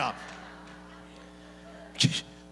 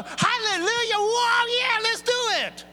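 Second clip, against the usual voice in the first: high, loud, cheering hallelujah; excited congregation; 5 dB louder than usual. Retold or imitated. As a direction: cheer like an eager crowd. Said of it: "And they go".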